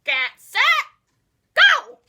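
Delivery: building to a huge shout. Acted. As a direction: fire off the start, yell go. Race start call.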